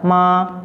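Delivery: "ma" held flat; unbending, level "ma". Shown as a demonstration. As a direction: keep "ma" on one even pitch. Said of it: "nada datar".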